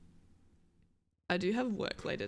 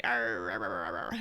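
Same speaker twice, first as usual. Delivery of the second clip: sick voice; 3 semitones higher than usual. Pretend. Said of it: "put on, like, a sick voice".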